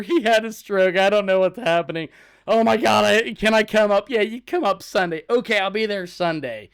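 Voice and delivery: high, loud urgent exchange; alarmed retelling. Retold or imitated. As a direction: act out a frantic emergency call. Retold alarmed phone call about stroke.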